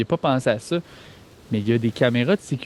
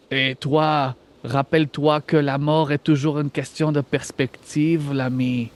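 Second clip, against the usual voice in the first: artificial intelligence lightly voiced in a put-on Franco-German accent. AI villain reminds a player about death, light Franco-German accent. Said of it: "avec une voix d'intelligence artificielle".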